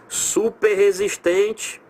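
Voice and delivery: Super resistente drawn out slowly; slow demo word. Shown as a demonstration. Teacher demonstrating Super resistente slowly. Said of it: "R com R".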